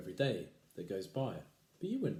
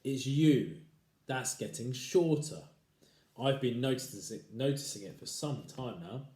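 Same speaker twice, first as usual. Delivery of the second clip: gloating husband; 3 semitones higher, 5 dB louder than usual. Acted. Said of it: "grinning horribly".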